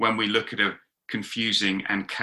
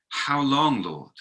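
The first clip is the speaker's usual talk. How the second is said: pleading cry; 3 semitones higher, slower than usual. Acted. Faith crying out to God, understated pleading. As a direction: cry out gently, sinking on the last word. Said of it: "cries out to God".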